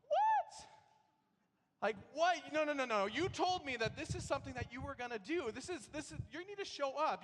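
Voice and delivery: high, loud, furious inner outburst; inner rage. Retold or imitated. Pastor voicing his inner rage at the painters, high and loud. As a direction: let the silent fury pour out at the painter. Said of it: "And inside me, I'm going".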